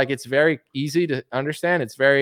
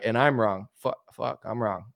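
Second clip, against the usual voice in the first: low, much softer grumble of admitting defeat; mock muttered defeat; 6 semitones lower, 6 dB quieter than usual. Imitating pundits muttering that they lost the argument, in a low, soft mock grumble. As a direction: mutter it under your breath like a sore loser. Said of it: "They go".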